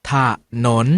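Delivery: ถ as short ถะ, then นน; syllable by syllable. Shown as a demonstration. Teacher leads class sounding out ถะ ... นน together. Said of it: "มาออกเสียงคำเหล่านี้พร้อมๆกัน".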